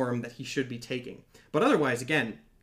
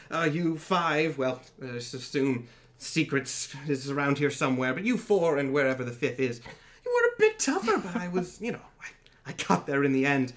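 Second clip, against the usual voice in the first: lightly voiced gloating god. Dream taunting the players, lightly gloating.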